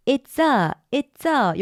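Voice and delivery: its-a run together as one; linked sounds. Shown as a demonstration. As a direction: glide straight from its into a. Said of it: "요거 우리 연결했고요".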